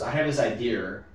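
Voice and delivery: imitating a boss, "idea" ending in an r; Boston "idea". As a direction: say "idea" as "idear", Boston style. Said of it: "but he doesn't say idea".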